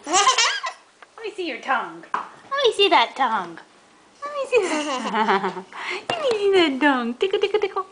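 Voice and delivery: laughing while tickling; giggly tickle attack. Real, not acted. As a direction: giggle through the words.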